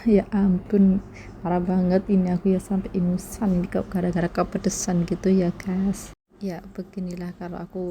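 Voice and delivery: sniffly, runny nose from chili; talking through the spice burn; mouth burning from spicy food. Real, not acted. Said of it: "sampai ingusan banget".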